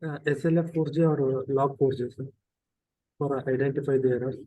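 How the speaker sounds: repeating it so the teacher can hear; speaking up. Real, not acted. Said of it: "your voice is very low".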